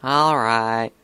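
mild reluctant grumble; grumbling. A narrator's reading. Filly giving in to her sister's warning, grumbling. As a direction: give in with a touch of sulk. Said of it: "Applebloom grumbled".

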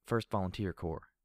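dutiful military recital; reciting by rote. Acted. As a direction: rattle it off like a soldier. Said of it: "she said as if reciting the information".

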